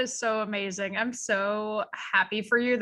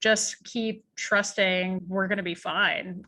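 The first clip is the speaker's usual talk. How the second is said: imitating calm husband; slower than usual. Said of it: "he just very calmly was just like".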